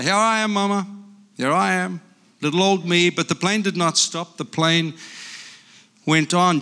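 lively picture-book reading with character voices; reading to children. Acted. Grandpa reading a picture book aloud to grandchildren, lively. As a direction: read it like a bedtime story to grandkids.

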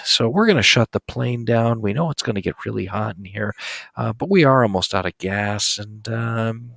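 a hint of a pilot on the intercom; airport announcement. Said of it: "when the pilot comes on".

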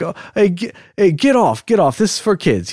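lightly acted shooing from an onlooker; mock scolding bystander. Imagined bystanders shooing him off playground.

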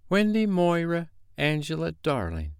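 high, proudly recited full name; self-satisfied. A narrator's reading. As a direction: announce it with some satisfaction. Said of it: "she replied with some satisfaction".

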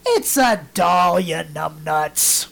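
put-on slow, deadpan kid voice; lightly voiced boy calling grandma a numbnuts slowly; blunt boy. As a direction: drag it out slowly with mild scorn. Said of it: "Harry looks at her and goes".

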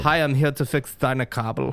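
put-on German accent, villain style; movie villain german accent. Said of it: "You do a good German accent".

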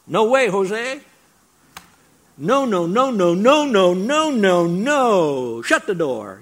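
hammed-up flat refusal, loud and high; emphatic no way. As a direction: shout it down like slamming a door. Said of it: "more contemporary version".

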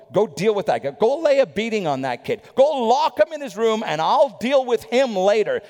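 lightly voiced stern father giving orders; firm dad tone, laying down the law; a hint of an angry father's command. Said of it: "that tone when dad would say".

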